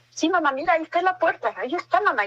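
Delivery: a hint of a scared child pointing at the door; scared little daughter. Daughter insisting to her mother that someone is there, lightly voiced. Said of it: "me decía".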